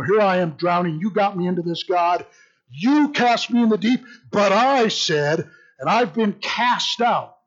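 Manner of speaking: mock-indignant complaint to God; emphatic Jonah. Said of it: "very emphatic".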